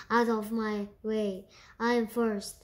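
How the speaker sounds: loud, bossy elephant voice; a big beast bragging, pushing to the front; boasting elephant. Acted. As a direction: shove everyone aside and brag. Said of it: "he boasted".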